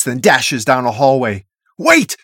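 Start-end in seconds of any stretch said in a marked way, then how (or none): 1.8-2.2 sharp, high, loud call; yelled. A narrator's reading. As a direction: yell after someone running off. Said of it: "Sonny yells before charging after her".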